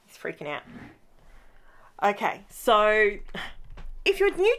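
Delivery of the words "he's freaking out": hushed gasp-and-whisper aside. Real, not acted. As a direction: whisper so the nervous dog isn't startled. Dog anxious, speaker whispers aside.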